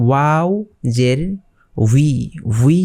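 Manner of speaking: "উই" said as wi, with a w glide; careful pronunciation. Shown as a demonstration. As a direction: sound out "উই" slowly as w plus long ee. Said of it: "উচ্চারণ করতে হবে".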